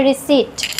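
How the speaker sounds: रिसीट as ri-seet, no p; silent-p pronunciation. Shown as a demonstration. Teacher correcting the misreading for learners, silent-p pronunciation. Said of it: "नहीं पढ़ते हैं".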